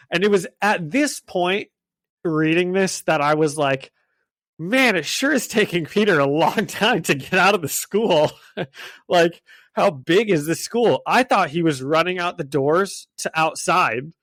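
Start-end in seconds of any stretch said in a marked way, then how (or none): 4.6-11.0 retold reader's bafflement, pitched up; mock exasperation. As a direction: act out half-amused exasperation with swooping emphasis. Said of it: "confused to angry".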